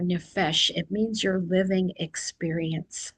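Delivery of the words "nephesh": nephesh said on its own, slowly and clearly, as a word to learn; new word shown. Shown as a demonstration. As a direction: introduce "nephesh" as the key word. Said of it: "I don't know if I've used that word before".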